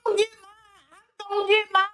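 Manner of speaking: fake-weeping imitation of her; mock crying imitation. Mocking Kamala with a fake sob. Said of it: "you still pretending to be a black woman".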